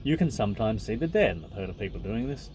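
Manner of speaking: even, measured reading voice; book reading. Acted. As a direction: read the passage out steadily. Reads the book aloud.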